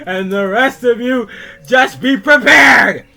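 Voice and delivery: screamed, high-pitched accusations, dragged out word by word; furious rant. Acted. Freddy raging at his barnyard friends in his letter, furious screaming. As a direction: scream it at the friends who wronged you.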